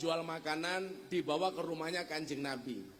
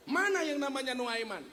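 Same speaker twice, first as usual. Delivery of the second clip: angry demand; 5 semitones higher, 3 dB louder than usual. Retold or imitated. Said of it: "Akhirnya dia marah".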